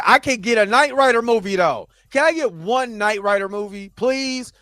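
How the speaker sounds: high, exasperated plea; mock pleading. Real, not acted. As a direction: beg with comic indignation.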